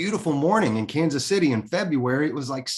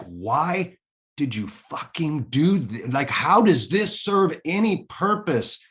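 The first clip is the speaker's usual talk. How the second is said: angry cry to God; 2 semitones higher, slower than usual. Retold or imitated. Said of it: "I yelled out to God".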